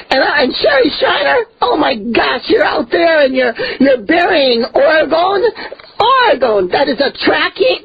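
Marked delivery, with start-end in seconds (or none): 0.1-5.5 higher, crying-edged indignant shout; tearful outrage. Real, not acted. Preacher denouncing Sherry Shriner, tearful and outraged. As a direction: rail at her as if your voice might break. Preacher rebuking a rival, near tears.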